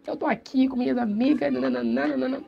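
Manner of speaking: dry Mozambican style. Shown as a demonstration. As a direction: rattle it off without singing. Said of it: "esse jeito muito mais seco".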